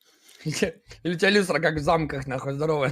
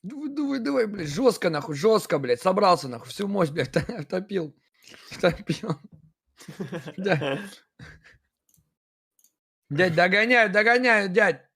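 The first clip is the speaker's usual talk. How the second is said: excited cheering; 4 semitones higher, slower than usual. Real, not acted. Cheering someone on.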